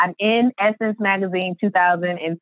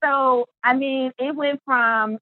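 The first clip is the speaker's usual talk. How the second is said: slow and choked with tears; tearing up; 5 semitones higher, slower than usual. Real, not acted. Guest moved to tears recounting her success. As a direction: let the tears catch the words.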